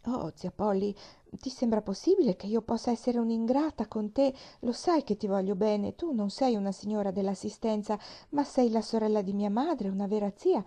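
a hint of a chatty young girl; eager little girl. Pollyanna answers her aunt, eager and a little flustered.

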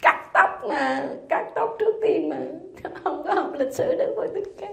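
high voice squeezed by laughter; laughing reproach. Real, not acted. Teacher teasing students who skipped Buddha's history, laughing. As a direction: chide them while helpless with giggles.

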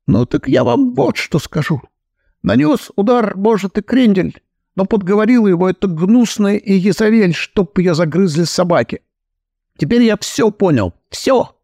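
a hint of a fussy heir cursing; agitated fat son. Heir accuses his stepmother, lightly worked up.

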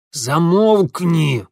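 loud slow bear-like growl; growled order. A narrator's reading. Mitya growling at the wailing girl, loud and slow. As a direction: growl her silent. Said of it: "по медвежьи рыкнул Митя".

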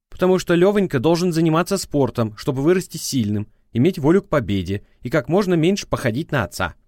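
prosecutor's voice. A narrator's reading. Ex-wife on the phone scolding him, prosecutorial tone.

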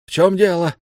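high, loud, impatient question; the ruler demanding what went wrong; sharp demand. A narrator's reading. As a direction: snap out the question. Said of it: "резкий требовательный голос Раванны".

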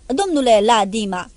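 mocking, hissed repetition; hissing irony. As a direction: sneer the name back at him. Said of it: "repetarea numelui o face cu o ironie șuierătoare".

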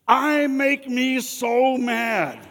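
high, slow, loud laughing whine; mock angry whine. Pastor mocking what no angry person says, high slow whine with a laugh. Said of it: "you'll never hear come out of the mouth of an angry person".

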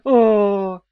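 loud breathy mock moan; passionate oh. A narrator's reading. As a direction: sigh it out with passion.

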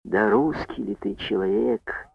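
very soft, slow, breathy whisper; barely audible whisper. A narrator's reading. Chairwoman to the brigadier, barely audible whisper. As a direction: breathe it out in shock. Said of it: "еле слышно прошептала она".

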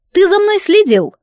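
high, surprised accusation; shocked high question; startled suspicion. A narrator's reading. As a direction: jump up in pitch, caught off guard.

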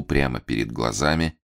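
usual speaking voice

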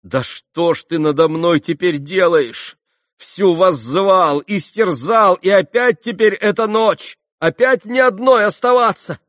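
high, loud, anguished reproach; sorrowful amazement. A narrator's reading. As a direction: plead in wounded despair. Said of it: "воскликнула она в горестном изумлении".

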